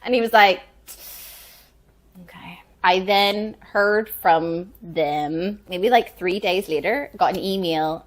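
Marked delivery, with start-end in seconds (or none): 2.2-2.6 retold reluctant acceptance. Director accepting actor's refusal, very quiet okay. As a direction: let it out very quietly, giving in.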